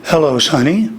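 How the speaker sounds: low-register hello; deep, firm demonstration voice; low vocal gear. Shown as a demonstration. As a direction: say it down in your bottom gear. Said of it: "So here's an example".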